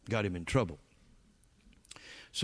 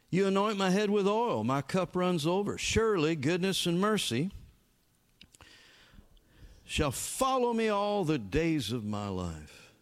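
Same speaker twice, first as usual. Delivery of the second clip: scripture recitation; 5 semitones higher, 3 dB louder than usual. Acted. Quotes Psalm twenty-three.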